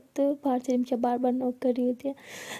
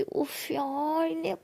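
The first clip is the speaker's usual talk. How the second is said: annoyed whisper; 4 semitones higher, much slower than usual. Acted. Interrupted by knocking, annoyed.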